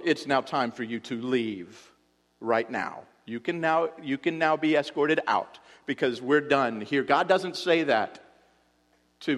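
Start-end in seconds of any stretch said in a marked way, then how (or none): 0.0-7.0 stern parent. Retold or imitated. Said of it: "you have the rebuttal of".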